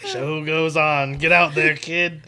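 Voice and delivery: lightly voiced showbiz pep talk; slightly hammed-up send-off, loud at the end; showbiz coach. Host mimics a showbiz boss sending kid out, hammed-up.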